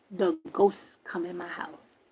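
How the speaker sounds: slow spooky whisper. Acted. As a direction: hush it like a secret. Spooky reveal of ghosts.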